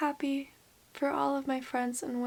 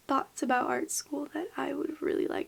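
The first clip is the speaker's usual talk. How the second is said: whisper; 4 dB quieter than usual. Real, not acted. Whispered confession.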